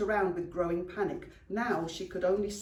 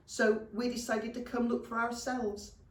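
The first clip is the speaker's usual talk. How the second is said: put-on higher, childlike goblin voice; little goblin Stain; 5 semitones higher than usual. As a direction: explain it like a small goblin. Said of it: "said Stain".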